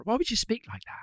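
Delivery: amused, high-pitched protest; laughing disbelief. Real, not acted. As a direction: ask it incredulously while laughing. Laughing after accent attempt.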